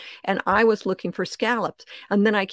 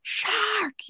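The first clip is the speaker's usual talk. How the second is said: retold call; 14 semitones higher, 5 dB quieter than usual. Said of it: "And I was like".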